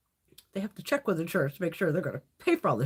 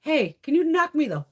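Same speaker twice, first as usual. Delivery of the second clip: higher, sarcastic mock plan to sleep at the hospital; 6 semitones higher than usual. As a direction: lay on the sarcasm, faster. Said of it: "I just figured".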